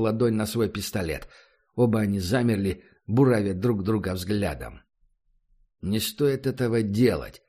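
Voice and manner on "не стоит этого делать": warning. Acted. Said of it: "предостерегающе произнёс".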